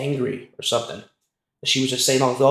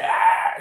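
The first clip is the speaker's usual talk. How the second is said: half-hearted imitated scream at normal volume; higher-pitched mock "ah" of a scream; 5 semitones higher than usual. Storyteller imitating the girl shaken by a preacher, mild mock scream. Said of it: "And she's screaming".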